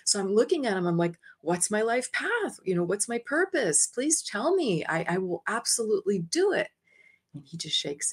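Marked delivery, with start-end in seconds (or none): 1.4-6.7 high, eager begging; rising pleas, please tell me; pleading. Retold or imitated. Begging the archangel for her life path, high and eager.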